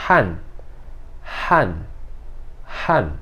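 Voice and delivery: han falling fast and hard; short, forceful falling han; fourth-tone han. Shown as a demonstration. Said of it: "ele desce rápido, desce forte".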